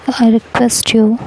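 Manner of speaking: drawn-out, very slow plea; pleading. Acted. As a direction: stretch out the request, begging. Shruti pleading with sister-in-law. (बहुत धीरे, गिड़गिड़ाते हुए)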